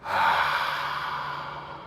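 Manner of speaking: long breathy exhale through the mouth. Shown as a demonstration. Teacher leads class breathing out through the mouth. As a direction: breathe it all out. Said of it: "Let's take another breath".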